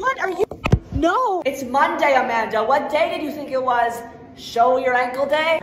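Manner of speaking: scandalised teacher. Acted. Strict teacher scolding.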